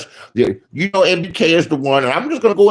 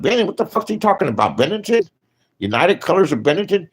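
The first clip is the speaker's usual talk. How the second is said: pitched-up puzzled mockery, playing dumb; mock confusion; 6 semitones higher, faster than usual. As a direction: fake baffled repeating the name. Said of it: "I'm like".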